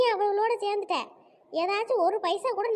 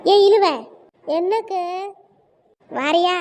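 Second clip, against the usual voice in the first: loud, sudden call to a friend; 7 dB louder than usual. Acted. Woman hailing her friend outside, calling out loudly.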